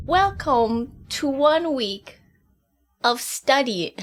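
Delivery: slow, careful British delivery; attempted British accent. Shown as a demonstration. Student opening progress report, careful attempted British accent. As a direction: put on British, word by word. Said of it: "in a British accent all week".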